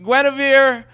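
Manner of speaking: mock-solemn call after her; mock dramatic plea. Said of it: "her friends were like".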